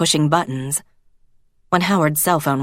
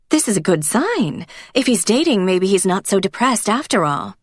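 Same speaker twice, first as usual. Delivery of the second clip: lightly voiced hopeful wife, pitched higher; a hint of an eager woman, higher; 5 semitones higher than usual. Elsa telling her husband the good news, lightly voiced higher.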